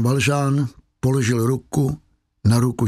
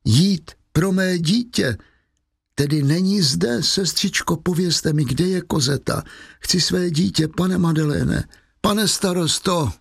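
Fantine pleading; 6 semitones higher than usual. Acted. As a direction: beg for your child, voice lifted and strained. Dying mother pleading for child.

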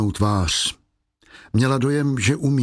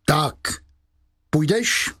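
sharp call, rising higher on the second word; a stern inspector calling her out; 4 semitones higher, slower than usual. A narrator's reading. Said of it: "a zvolal". (ostré zvolání, na konci výš)

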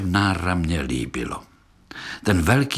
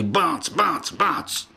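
pretend gunshots; 7 semitones higher, much slower than usual. A narrator's reading. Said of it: "jako by stříleli".

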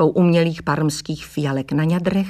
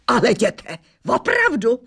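vykřikla; 4 semitones higher than usual. A narrator's reading. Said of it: "vykřikla".

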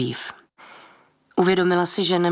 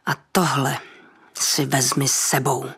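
nižší, zlé procezení mezi zuby; vytlač to skrz zaťaté zuby; procezeno mezi zuby; 3 semitones lower than usual. Acted. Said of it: "procedila stará žena mezi zuby". (procezeno mezi zuby, nízko)

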